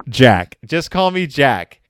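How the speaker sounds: hammed-up shout. The killer shouts his name at Sir Guy, hammed-up loud. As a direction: belt it like a pulp villain. Villain reveal repeated, hammed up.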